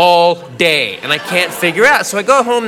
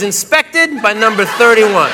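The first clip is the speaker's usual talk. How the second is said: deadpan sticker reading; slower than usual. Retold or imitated. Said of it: "that says".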